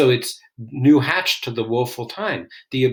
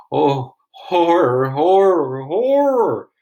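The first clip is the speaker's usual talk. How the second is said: horrified cry; 4 semitones higher, 5 dB louder, slower than usual. Acted. Macduff discovers murdered king.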